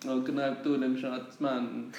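hammy, badly faked Jamaican accent; a laughing, poor Jamaican accent; a singer in a bad Jamaican accent. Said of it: "So that's a really bad Jamaican accent".

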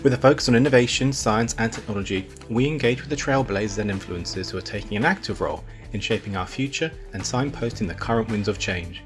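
upbeat announcer read over music; podcast intro read. Acted. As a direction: read it like a show opener.

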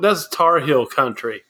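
drawn-out country twang; country accent. Pretend. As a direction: say it slow and country. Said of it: "you sound so country when you say that".

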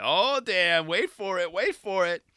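eager anticipation. Retold or imitated. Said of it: "I was like".

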